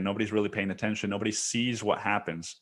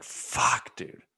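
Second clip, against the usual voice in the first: whispered curse. Retold or imitated. Scared by a death threat.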